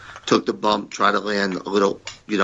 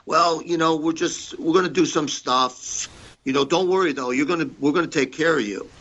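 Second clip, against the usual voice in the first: higher, soothing promoter voice; voicing Pat higher to brush off worries; imitating Pat; 7 semitones higher than usual. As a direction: mimic the boss talking him down. Pat voiced in retold quarrel.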